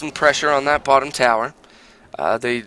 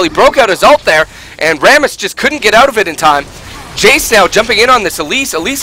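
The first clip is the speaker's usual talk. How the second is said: excited; 5 semitones higher, 3 dB louder than usual. Real, not acted. Live gank play-by-play building.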